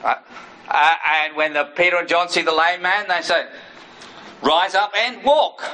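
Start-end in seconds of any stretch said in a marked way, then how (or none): 4.4-5.6 slow command. Retold or imitated. Apostles commanding the lame man.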